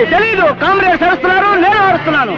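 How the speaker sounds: yelling because the comrades are; a bit of a shout. Acted. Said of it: "నువ్వెందుకు అరుస్తావు?".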